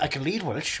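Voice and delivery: "lead" said in place of read. Acted. Actor claiming to read Welsh, "lead" with an L. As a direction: put an L at the start of read, "lead". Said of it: "read is a lead".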